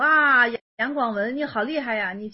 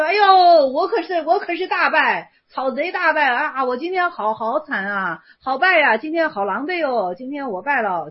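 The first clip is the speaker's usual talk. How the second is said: mock wailing of defeat, loud to start; hammed-up lament; 2 semitones higher, 5 dB louder than usual. Monk theatrically admits defeat, hammed-up wail. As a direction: overplay the beaten monk. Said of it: "僧说".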